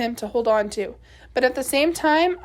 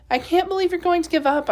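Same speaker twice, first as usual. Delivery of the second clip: quick, higher, upset accusation; indignant protest; 6 semitones higher, faster than usual. Acted. Girl accusing her father of quitting the search, indignant. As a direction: push back at him fast and hurt.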